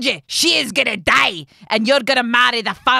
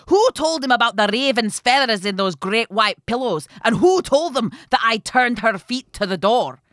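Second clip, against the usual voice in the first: loud, raised raging questions; furious cursing; 5 semitones higher, 10 dB louder than usual. A narrator's reading. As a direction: rant each question at full volume. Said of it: "cursing all the time".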